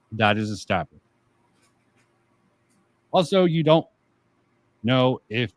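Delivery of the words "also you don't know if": talking through a small burp; words caught on a burp. Real, not acted. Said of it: "sorry, I'm sort of burping a little".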